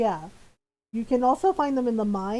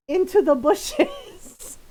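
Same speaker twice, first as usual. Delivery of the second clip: drawn-out punchline; 7 semitones higher, 4 dB louder, much slower than usual. Retold or imitated. Comic fall, drawn out.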